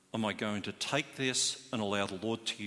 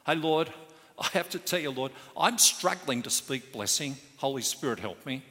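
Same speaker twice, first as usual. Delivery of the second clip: pleading prayer; 3 semitones higher, 4 dB louder than usual. Retold or imitated. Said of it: "I actually try and visualise it".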